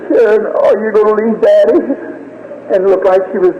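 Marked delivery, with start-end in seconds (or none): 0.1-1.8 put-on higher-pitched plea to a child; tearful pleading. Father to his dying daughter, pleading. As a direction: relive a father's anguished question.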